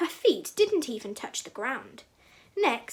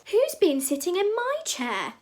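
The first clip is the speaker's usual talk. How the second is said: medium-sized bear voice, pitched up; Mama Bear; 7 semitones higher than usual. A narrator's reading. Mama Bear finds her cushion messed up, medium-sized cry. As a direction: cry out higher, without roaring. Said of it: "cried Mama Bear in her medium-sized voice".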